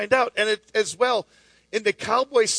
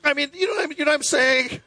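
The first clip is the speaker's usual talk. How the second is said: cowboy buddies chatting; 7 semitones higher, faster than usual. Retold or imitated. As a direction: ham up a rambling guy at the campfire. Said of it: "around the fire going like".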